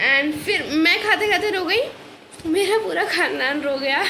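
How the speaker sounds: light laugh through the words. Real, not acted. Laughing to viewers about family crying. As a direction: laugh it off while admitting.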